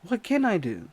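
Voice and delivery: high, loud, panicked cry for help; panicked yelling. Retold or imitated. Narrator panicking at the attacker, high panicked yell. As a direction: shout it like you're helpless and scared. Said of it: "I'm just sitting there like".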